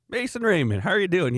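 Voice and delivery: retelling meeting the hockey player, thrilled fan greeting; starstruck greeting. Retold or imitated. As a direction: greet him like you can't believe it's him. Excitedly recognising hockey star neighbour.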